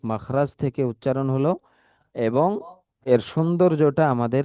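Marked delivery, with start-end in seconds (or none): none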